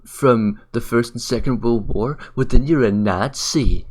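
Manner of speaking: slow, drawn-out mock reasoning; mocking imitation. Quoting the commenter's accusation back at him, slow and mocking. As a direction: parody the commenter's smug logic, slowly. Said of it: "And, like".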